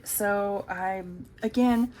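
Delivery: hiccuping mid-sentence; talking through the hiccups. Real, not acted. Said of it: "excuse me, I got the hiccups".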